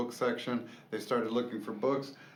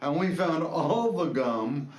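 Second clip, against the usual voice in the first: put-on excited kid; 4 semitones higher, 4 dB louder than usual. Son explaining, high excited.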